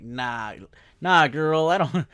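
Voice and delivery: a hint of a character turning someone down, half laughing; mock friend-zoning. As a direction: play the game hero gently rejecting her. Acting out game character rejecting.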